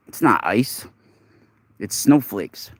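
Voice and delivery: unvoiced whispered aside. Real, not acted. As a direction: whisper it close to the mic.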